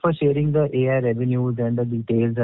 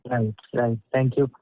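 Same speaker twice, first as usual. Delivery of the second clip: ordinary delivery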